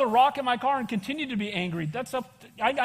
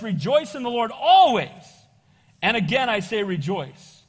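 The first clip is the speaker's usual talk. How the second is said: proclaimed verse; 5 dB louder than usual. Real, not acted. Reading Philippians emphatically.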